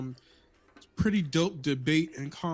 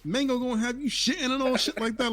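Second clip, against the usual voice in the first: put-on high squeaky baby voice; 9 semitones higher than usual. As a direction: squeak it out like an outraged toddler. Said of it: "the banana baby was like".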